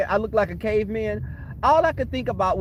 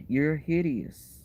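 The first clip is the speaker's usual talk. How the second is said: slow, drawn-out disgusted verdict; slow disgusted repeat; 3 semitones lower, 3 dB quieter, much slower than usual. Retold or imitated. Repeating the verdict on her own look, slowly. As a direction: drag out each word like a verdict. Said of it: "I looked at myself and I was like".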